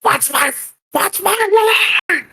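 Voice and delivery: squeaky high, slow flustered plea; the big dragon gone squeaky after forgetting his lines. Acted. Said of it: "And the dragon, like".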